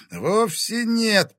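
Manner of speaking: high, drawn-out cry of pain; pained groan. A narrator's reading. Wounded Timofey denying he is mad, pained groan. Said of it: "простонал Тимофей".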